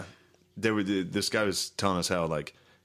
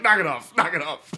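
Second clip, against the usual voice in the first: mock yell; 6 semitones higher, 5 dB louder than usual. Cop breaking up bar.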